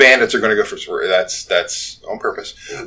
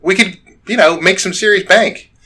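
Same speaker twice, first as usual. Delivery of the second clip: bandit; 9 semitones higher, 3 dB louder than usual. Acted. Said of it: "turns to the orc and says".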